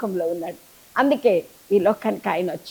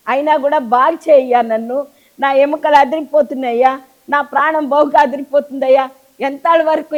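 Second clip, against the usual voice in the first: pleading cry; 3 semitones higher, 4 dB louder than usual. Acted. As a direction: cry out to God for healing. Preacher voices believer's plea.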